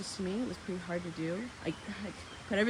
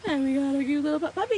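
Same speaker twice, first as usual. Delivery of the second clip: puppy gushing; 7 semitones higher, 10 dB louder, faster than usual. Real, not acted. Gushing over the new puppy.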